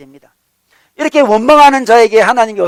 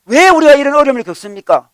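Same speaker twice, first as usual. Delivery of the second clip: higher-pitched mock protest to God; acting out a grumbler's complaint; resentful complaint; 4 semitones higher, 3 dB louder than usual. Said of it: "원망하는 거죠".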